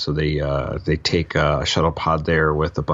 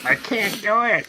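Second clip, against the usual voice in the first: mock Scottish accent. Mocking the slipping accent.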